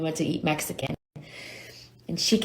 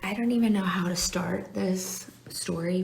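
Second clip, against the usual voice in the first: whisper; 2 semitones higher than usual. Real, not acted. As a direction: lean in and whisper it. Whispering confession to viewers.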